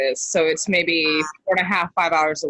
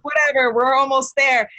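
high, breezy quote; carefree excitement, imitated; 7 semitones higher than usual. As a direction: imitate overconfident excited travellers. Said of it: "they were so excited".

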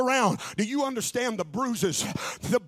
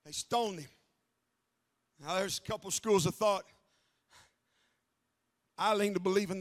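much softer and lower, musing; hushed reflection; 5 semitones lower, 6 dB quieter than usual. Acted. Pastor musing to the congregation about Paul, hushed. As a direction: pull right back and think aloud.

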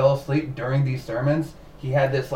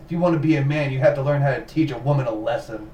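bully's taunt; faster than usual. Retold or imitated. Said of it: "something that this horrible person said".

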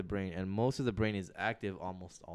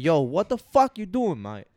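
much higher, much louder, slow mock Australian cussing; hammed-up Australian rant; 8 semitones higher, 9 dB louder, slower than usual. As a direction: cuss out in a fake Australian accent. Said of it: "someone who is from that region could probably be like".

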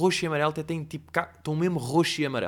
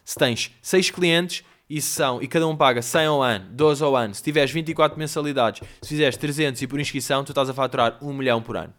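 online guru pitch; 4 dB louder than usual. Retold or imitated. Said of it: "aquelas simplificações que nunca são assim".

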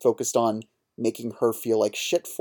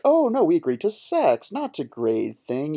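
mock yell; 5 semitones higher than usual. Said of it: "yells at her".

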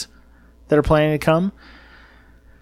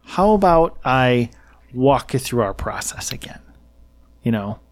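condescending. Retold or imitated. Press secretary answering a reporter's question, condescending. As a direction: imitate an official talking down to someone. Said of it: "condescending tone to him".

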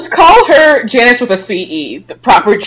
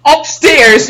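puzzled question; 4 semitones higher, 3 dB louder than usual. Real, not acted. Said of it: "You know upstairs in the restaurant".

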